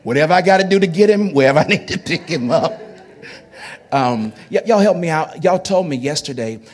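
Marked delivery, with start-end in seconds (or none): 0.0-2.8 excited. Real, not acted. Eager pledge, laughing.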